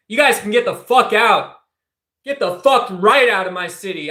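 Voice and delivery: heated, rising rant; angry rant. Real, not acted. Streamer rails at ICE raids in his city, angry. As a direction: let the outrage build and spill over.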